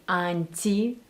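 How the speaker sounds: "anti" said slowly with a soft t; soft Russian t. Shown as a demonstration. Coach showing how Russians say it, soft consonant. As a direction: soften the t in "anti", stretching the word. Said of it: "t is soft".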